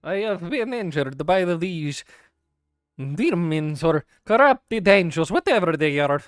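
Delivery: slow, proud creature; haughty creature voice. Acted. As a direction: talk down to lesser creatures.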